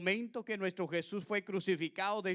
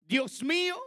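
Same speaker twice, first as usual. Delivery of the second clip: loud anguished cry; 8 semitones higher, 6 dB louder than usual. Acted. Clamor de Jesús citado. (clamor fuerte y angustiado)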